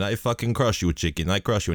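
lightly put-on Russian accent, soft and menacing; playful Russian tough-guy threat; a hint of a Russian fighter accent; mock Russian accent. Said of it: "We were both doing the accents".

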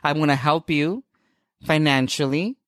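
mock Edward. Edward quoted by S1.

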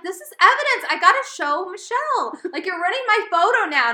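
high and loud, mock outraged; indignant protest. Stopping boyfriend rinsing burnt hair away, loud high indignation. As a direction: defend the evidence like it's a crime scene. Stopping Joe washing evidence.

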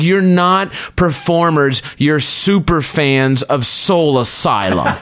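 high, slow mock yell; retold yell. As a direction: draw out the accusation in a mild imitated shout. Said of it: "She just yells out".

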